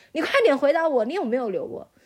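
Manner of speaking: play-acted enraged, furious, shrill, demanding shout. Recounting the ex-husband's second demand for an answer, imitating an angry shout. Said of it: "非常愤怒的就就很大声喊".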